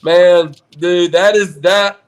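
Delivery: pumped-up bro cheer; fired up. Real, not acted. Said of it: "I get fired up".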